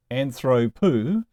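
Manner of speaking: "Anthropu" slowly, stressed on the middle syllable "thro"; stress on second-to-last syllable. Shown as a demonstration. Teacher showing the accent has moved, middle-syllable stress on "Anthropu". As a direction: sound out "Anthropu", leaning on "thro". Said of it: "ends up on the second to last syllable".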